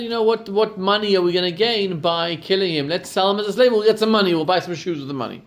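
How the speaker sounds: a brother pitching a clever plan, voice climbing; eager scheming brother. Acted. Brother proposes selling Joseph.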